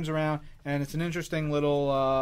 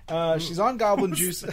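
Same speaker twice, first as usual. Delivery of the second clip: goblin juice voice. Pretend. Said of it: "that's my goblin juice voice".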